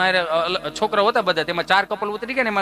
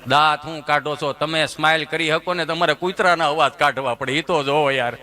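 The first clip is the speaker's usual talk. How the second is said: low dog growl voice; 5 semitones lower than usual. Acted. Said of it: "હાવ નીચા સૂરમાં". (કૂતરી નીચા સૂરમાં ઘુરકે)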